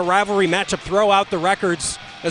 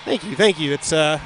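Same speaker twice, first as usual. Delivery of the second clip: out of breath. Real, not acted. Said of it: "I sound like I'm catching my breath".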